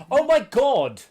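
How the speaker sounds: real high, loud shock; shocked outburst. Real, not acted. Gamer one-shotted by a skeleton, shocked. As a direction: cry out in sudden alarm. Startled by being killed in game.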